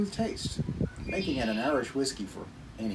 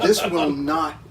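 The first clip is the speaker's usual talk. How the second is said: loud words through a real laugh; laughing while talking; 2 semitones higher, 10 dB louder, much slower than usual. Real, not acted. Reviewer giving his verdict to friends, laughing as he talks. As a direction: push each word out over your laughter. Still cracking up over the comparison.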